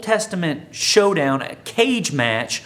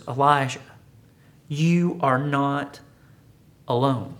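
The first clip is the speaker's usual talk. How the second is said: tender reassurance; 2 semitones lower than usual. Acted.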